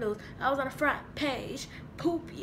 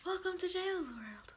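intro greeting; 5 semitones higher, 6 dB quieter, slower than usual. Shown as a demonstration. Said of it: "I'm gonna be like".

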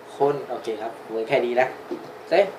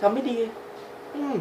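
put-on high small child echo; 8 semitones higher, 6 dB quieter than usual. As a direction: repeat it like a little kid. Dubbing the child's lines. (เสียงเด็กพูดตามพ่อ)

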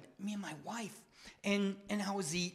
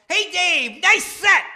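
loud, high call from the crowd; bellowed heckle, much higher and louder; yelled across the room; 14 semitones higher, 14 dB louder, slower than usual. Retold or imitated. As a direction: shout it out to him as he leaves the stage. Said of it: "one of the other comedians yells out".

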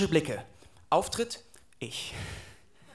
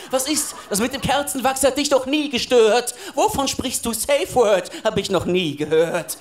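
Christian Grey; 3 dB louder than usual. Acted. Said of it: "Christian Grey".

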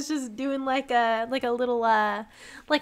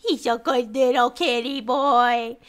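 cooing pet talk; 3 semitones lower than usual. Real, not acted. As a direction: coo over the little cat. Cooing over a kitty.

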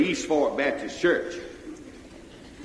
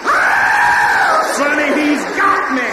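high panicked shout; shrieking that the ghost has him; terrified shout; 8 semitones higher, 5 dB louder, slower than usual. Retold or imitated. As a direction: scream for your brother in fright. Boy thinks headless man grabbed him.

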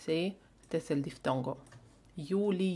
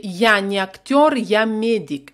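louder, projected practice phrase; 3 semitones higher, 5 dB louder than usual. Shown as a demonstration. Teacher to students, showing how to say it out loud. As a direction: belt the phrase out like a drill. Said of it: "en lo más alto posible".

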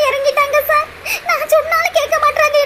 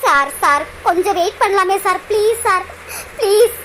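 tearful begging; 5 semitones lower than usual. Acted. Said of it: "Priya, அழுகாத பிரியா".

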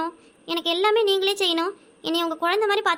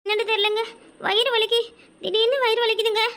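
faked pain; 4 semitones higher than usual. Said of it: "நடிப்புக்காரி".

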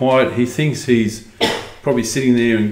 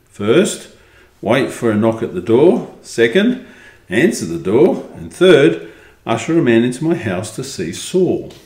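measured, expressive storybook reading; story narration. A narrator's reading. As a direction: read it out as a first-person tale. Reads the story aloud.

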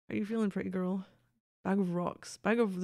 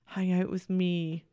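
slow insistent plea; slower than usual. Real, not acted. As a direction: Hang out with me. said slow and drawn out, pleading.

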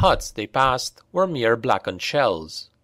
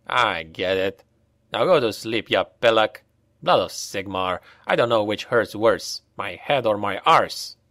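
weary; 3 semitones lower than usual. Acted. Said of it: "said Pavel wearily".

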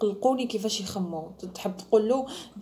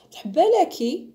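mock gushing; 9 semitones higher, 8 dB louder, slower than usual. Mocking a girl blurting out.

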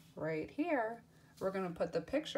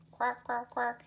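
playful quack quack, a bit louder; be the duck for the kids; 3 semitones higher, 4 dB louder than usual. Pretend. Teacher imitates duck for children.

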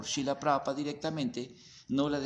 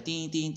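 bell imitation; 4 semitones higher than usual. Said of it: "sonó la campanita".

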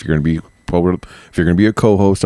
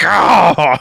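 mock shock; 11 semitones higher, 4 dB louder than usual. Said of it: "you just be like".

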